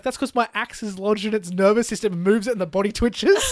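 amused retelling of the dwarf's excuse; laughing through the quote. Retold or imitated. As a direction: chuckle through the line as you retell it. Gimli's excuse retold, laughing.

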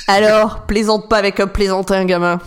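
hammy film baddie line; movie villain. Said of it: "avec une voix de méchant mal doublée". (méchant de film mal doublé)

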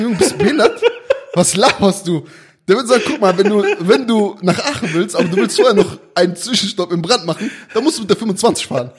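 loud, high, laughing bus driver; annoyed bus driver. Retold or imitated. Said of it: "der wird dich fragen".

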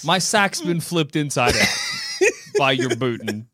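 yelling through laughter; laughing shout. Acted. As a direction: cry out while cracking up. Laughing through mock pain.

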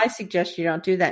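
lightly attempted British accent; understated warning with a hint of British. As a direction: try a British accent, not very convincingly. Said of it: "wish I could do a British accent".

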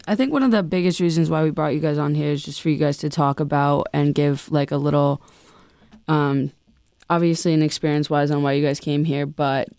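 loud. Real, not acted. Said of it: "Sorry, I'm being loud".

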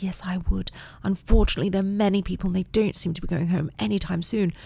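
imitating a polite British child; mock-prim British daughter; little British voice. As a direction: put on a careful, proper British girl's accent. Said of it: "Violet's little British voice".

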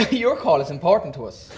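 polite automated hold message; phone menu voice. Retold or imitated. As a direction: read it like a call-centre recording. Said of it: "and your liver would go".

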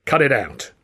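curt, mild bark. Acted. Considine cuts off Alf's excuse with a mild bark. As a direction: cut them off sharply. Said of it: "Considine barked".

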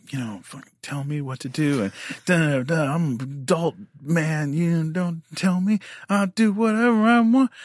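ranting to himself. Retold or imitated. Fuming alone in the trailer after the call, rising to a shout. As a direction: rant alone, climbing to a yell.

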